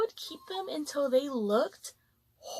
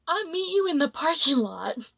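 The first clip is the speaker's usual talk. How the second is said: louder, imitating a heated challenge; mock angry threat; 5 dB louder than usual. Young customer challenging the middle-aged server, mock angry and louder. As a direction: throw down a threat, retold. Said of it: "he's yelling".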